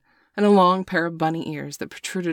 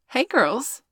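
kinder tone; 9 semitones higher than usual. A narrator's reading. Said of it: "taking on a much kinder tone".

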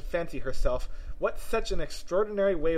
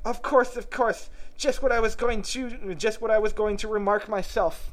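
eager tea-party figure; 8 semitones higher, 4 dB louder than usual. Acted. Chiming in with the party, eager and high. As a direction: voice an excitable figure, pitched well up. Reader voices a story figure.

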